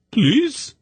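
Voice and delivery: high, desperate plea; begging. A narrator's reading. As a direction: beg him in terror. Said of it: "Saras begged him".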